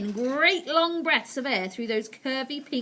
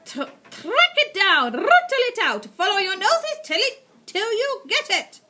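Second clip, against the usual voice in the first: screaming witch; 12 semitones higher, 10 dB louder than usual. Acted. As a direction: scream orders to hunt. Grand High Witch orders.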